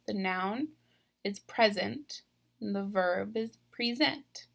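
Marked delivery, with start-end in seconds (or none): 1.4-2.2 "present" said like the gift, PREZ-ent; stress on first syllable. Shown as a demonstration. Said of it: "I said them differently". 3.7-4.5 "present" said like handing over, pree-ZENT; stress on second syllable. Shown as a demonstration. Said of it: "I said them differently".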